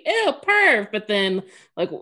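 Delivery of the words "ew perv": high, loud grossed-out "Ew, perv"; disgusted. Retold or imitated. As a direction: recoil in disgust. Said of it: "I'm automatically".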